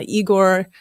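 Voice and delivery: put-on slow, light Russian accent. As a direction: drawl the name in a Russian accent. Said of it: "you keep bringing it up just so you can use the accent".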